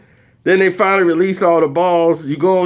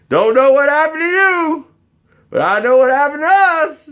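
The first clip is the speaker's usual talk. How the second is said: high mock apology; 9 semitones higher than usual. Mock farewell to the girl.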